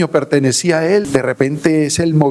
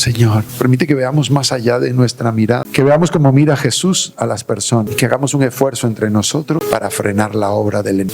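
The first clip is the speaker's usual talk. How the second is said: closing prayer; 3 semitones lower than usual. Acted. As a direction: pray it gently, winding down.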